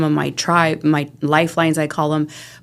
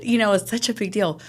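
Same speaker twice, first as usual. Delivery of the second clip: ordinary delivery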